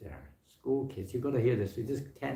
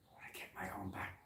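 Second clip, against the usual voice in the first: whisper; 12 dB quieter, faster than usual. Retold or imitated. Voicing a vengeful neighbour.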